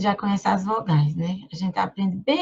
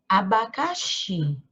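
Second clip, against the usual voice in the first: slow word demonstration; 3 semitones lower, slower than usual. Shown as a demonstration. Teacher shows word slowly.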